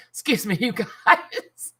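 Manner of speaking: strained, slow after choking; recovering from a bug in the throat; just swallowed a bug. Real, not acted. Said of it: "Apparently I just inhaled a bug".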